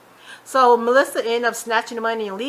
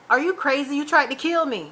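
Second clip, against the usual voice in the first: mildly heated, raised-pitch accusation; retold quarrel, pitched up; accusing; 5 semitones higher than usual. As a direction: imitate an outraged accuser. Acting out Veronica's accusation in quarrel.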